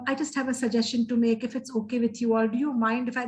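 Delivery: a lightly done demo of polite hedging to colleagues; timid, overly polite. Shown as a demonstration. Professor demoing how she speaks at staff council, lightly appeasing. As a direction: ask permission meekly, barely changed voice. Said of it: "this is how I speak".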